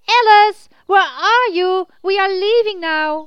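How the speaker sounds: loud, high call across the distance; shouting out loud. Acted. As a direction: call out to find her. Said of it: "shouted out loud".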